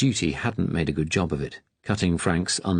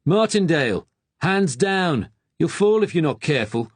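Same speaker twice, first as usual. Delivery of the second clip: much higher, louder calling out; impatient shout; 10 semitones higher, 3 dB louder than usual. Acted. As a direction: bark it across the courtyard. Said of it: "Sam called out impatiently".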